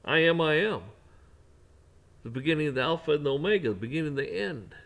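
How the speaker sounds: voice of God. Acted. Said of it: "He is".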